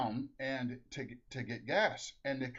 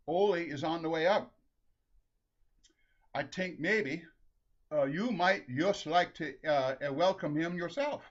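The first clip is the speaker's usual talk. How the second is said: put-on Norwegian-accented suggestion, slightly raised; Saint Peter, Norwegian accent; 3 semitones higher than usual. Saint Peter tells Lena that Ole is coming, Norwegian accent. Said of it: "the Saint Peter has a Norwegian accent".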